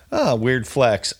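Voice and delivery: slow, drawn-out mock response. Friend needling someone proud of a video game, mocking. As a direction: draw it out to mock the bragging. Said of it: "I'm, like, mocking him".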